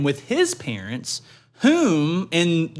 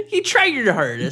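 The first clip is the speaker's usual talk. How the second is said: condescending; 7 semitones higher than usual. Retold or imitated. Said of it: "Just super condescending".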